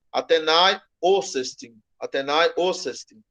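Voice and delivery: "Atenai" rises, "o cestim" drops away from a stressed O; leaning enclitic stress. Shown as a demonstration. Teacher repeats how the word without accent leans, split stress. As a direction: join estim onto the O in "o cestim". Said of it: "Se pronunciar dessa maneira".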